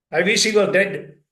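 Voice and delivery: put-on a child blurting it out loud in anger; angry child. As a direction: hurl it out like a furious kid. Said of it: "if a little one comes and says".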